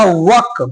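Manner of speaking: वक said as wuk, no r; वक with the r dropped, short vowel; वक without r; silent r. Shown as a demonstration. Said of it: "देखिए इसे क्या पढ़ेगा".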